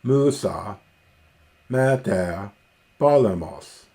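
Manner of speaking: last syllable left unraised in "Musa", "mater", "polemos"; unaccented final syllable. Shown as a demonstration. Teacher giving baritone examples, unaccented endings in "Musa", "mater", "polemos". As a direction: put the accent early and let the end drop in "Musa", "mater", "polemos". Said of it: "does not have an accent is considered a baritone".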